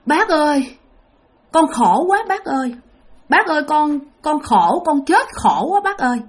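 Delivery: put-on high, pleading lament as the dead girl; a hint of a ghost girl's wailing; possessed wailing plea. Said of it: "anh nói vậy nè các bạn".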